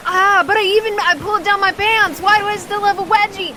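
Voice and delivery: high, loud whiny complaint; whiny rival. Acted. Rival knocked off his board, high whining. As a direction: whine like a sore loser falling off. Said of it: "he's like".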